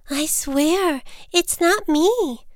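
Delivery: high, drawn-out denial; insistent protest. A narrator's reading. Little Bird denies making the rude noise, insistent and high. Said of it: "Little Bird insisted".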